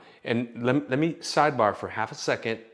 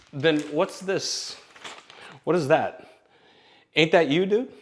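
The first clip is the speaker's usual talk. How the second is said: grandma's voice; 5 semitones higher than usual. Retold or imitated. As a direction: play the grandmother holding up proof. Grandmother voiced in retold story.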